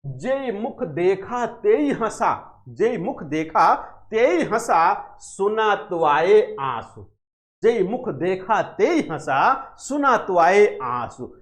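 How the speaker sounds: slow, drawn-out couplet, repeated; slow verse recitation. Acted. Teacher reciting Jayasi's couplet for the class, slow and deliberate. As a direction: savour the couplet line by line.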